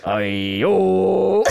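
hammed-up pirate call; a cartoon pirate hailing the ship. Shown as a demonstration. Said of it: "I've got pirate".

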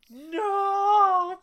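sudden high shout of protest. Acted. Friend shouting in mock alarm at the good dog. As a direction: yelp it out in alarm. Friends voicing Gaspod to Laddie.

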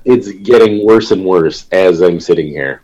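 congested, blocked nose; stuffed-up nose. Real, not acted. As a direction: talk through a stuffed-up nose. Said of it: "so congested and stuffed up".

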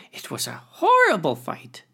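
high breathy whisper; dramatic whisper. Acted. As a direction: whisper it like a scary tale. Crayfish boasting, hushed.

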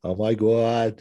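hammed-up Boston accent. Imitating The Departed's dialogue in a Boston accent. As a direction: mimic a movie Bostonian. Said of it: "it's just full of that accent".

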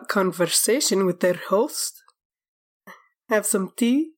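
lightly posh aristocratic put-on, slowed; fancy noble accent pressing the host for tea. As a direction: play the well-bred guest angling for tea. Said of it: "This person has a fancy, a fancy accent".

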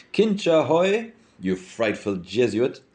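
high, slow hail from the tower top, then settling; hailing shout. Acted. Mulligan hails Stephen from the tower top, high hammed-up shout. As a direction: call out to him with a mocking grin.

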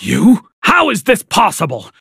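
high, outraged yelling; shocked anger. A narrator's reading. Father discovering his brother in the hotel, furious. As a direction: order him thrown out, furious. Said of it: "Dad was so angry".

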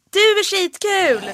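loud, high, very slow mock reply; mock the promoter right back; sarcastic retort. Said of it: "Typ man bara". (ironiskt svar)

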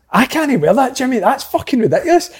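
half-laughing mock outrage; laughing protest. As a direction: crack up while you complain about the kit. Retold protest over a baggy kit.

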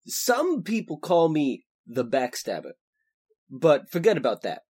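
low, gloomy voice; low gloomy hero. Acted. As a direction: deliver grim news deep and glum. Frosh voiced low throughout.

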